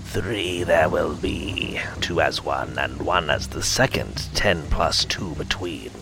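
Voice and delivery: trance-like whispered oracle; harsh whisper. Acted. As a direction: chant the vision in a harsh whisper. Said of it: "spoke in a harsh whisper".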